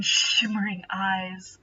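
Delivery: normal talking voice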